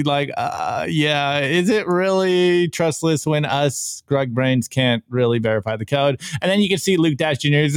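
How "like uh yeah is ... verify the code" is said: teary Will Smith. Retold or imitated. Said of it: "you know, the teary".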